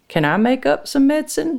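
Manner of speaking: put-on high, eager-to-join little girl; child's request. A narrator's reading. Lucy asking to join in, high child's voice. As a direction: ask high up, like a small child. Little daughter asks her mother.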